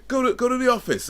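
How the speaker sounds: hammed-up boss yelling; retold angry shout. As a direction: act out the manager shouting, voice pitched right up. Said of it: "he was shouting at me saying".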